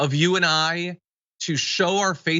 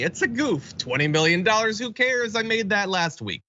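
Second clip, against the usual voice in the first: lightly voiced rich man, pitched up; breezy, higher-pitched mock dismissal of a big expense; blasé multimillionaire; 4 semitones higher than usual. Host mocks a rich candidate shrugging off millions, breezily dismissive.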